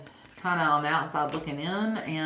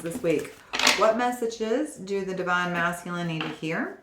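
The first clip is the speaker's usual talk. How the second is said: invocation. Acted. Invocation while shuffling.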